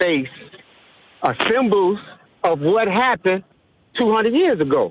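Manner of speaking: heated, angry speech, rising in pitch. In a discussion about historical symbols, a speaker answers another: angry voice. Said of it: "I hear the anger in your voice".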